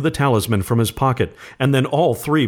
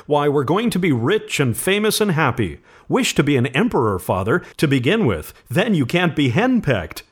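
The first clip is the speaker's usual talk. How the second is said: higher-pitched, lightly mocking teasing; pretended horror; 6 semitones higher than usual. A narrator's reading. Son teasing father about riches, with pretended horror. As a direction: tease with mild mock horror. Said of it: "said Herbert with pretended horror".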